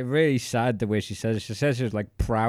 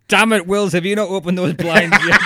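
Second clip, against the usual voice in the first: higher, louder exasperated boss yelling at an employee; mock angry boss; 9 semitones higher, 10 dB louder than usual. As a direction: bark it like a fed-up manager. Imagined boss yelling at Wills.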